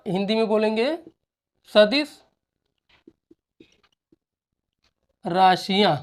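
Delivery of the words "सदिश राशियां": slow dictation. Shown as a demonstration. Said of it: "dictating word by word".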